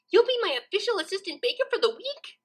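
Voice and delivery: can't believe her luck; gleeful. A narrator's reading. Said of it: "eyes sparkled with glee".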